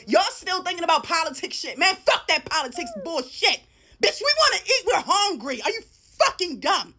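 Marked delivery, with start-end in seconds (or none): 4.0-6.9 laughing shout. Real, not acted. Angry rant about food prices.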